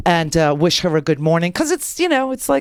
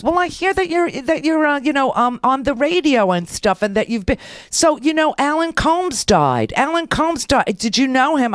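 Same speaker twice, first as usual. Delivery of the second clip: lightly voiced nosy woman, higher pitch; nosy nurse; 5 semitones higher than usual. Nurse prying into the patient's radio life, nosy.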